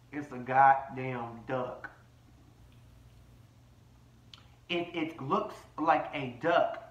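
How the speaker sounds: drawn-out, word-by-word hammering; slow, deliberate emphasis. Real, not acted. Host spelling out the duck saying to the girls, slow and emphatic. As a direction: spell it out slowly, punching each beat.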